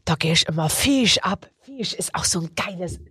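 hammed-up Saxon pizza order, partly whispered; lightly put-on Saxon accent. Host orders a pizza on air in mock Saxon. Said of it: "auf Sächsisch".

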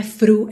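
"fru" said with an F instead of th; wrong F sound. Shown as a demonstration. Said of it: "não é F". ("through" errado, como "fru")

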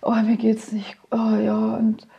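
whimpering, half-whispered self-pity; a drunk teenage son confessing to his mother; miserable drunk son. Retold or imitated. Whimpering, whispered drunk confession. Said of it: "schaut schon so, so lahm".

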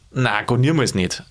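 "Na, gar niemals nicht" said easily, without aggression; gently friendly triple no; friendly refusal. Shown as a demonstration. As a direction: turn it down in a friendly way. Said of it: "freundlich sagen".

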